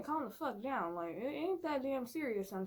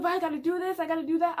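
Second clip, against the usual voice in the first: higher and louder, whiny busy friend; restless protest; 6 semitones higher, 9 dB louder, faster than usual. Retold or imitated. Caesar refusing to sit during a movie, whiny and loud. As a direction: protest that there is too much to do.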